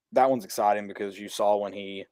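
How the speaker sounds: flat, unexcited delivery; monotone. Real, not acted. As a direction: say it with no enthusiasm. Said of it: "in the most just monotone voice".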